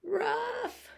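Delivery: one high yap; a single small high bark; little dog bark. Acted. Biff barking back to Buff, high yap. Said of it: "said Biff".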